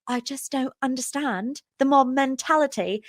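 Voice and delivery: lightly voiced puzzled older-castmate impression; imitating Lisa. Recapping Lisa's confusion about the scandal, lightly imitated. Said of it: "And Lisa's like".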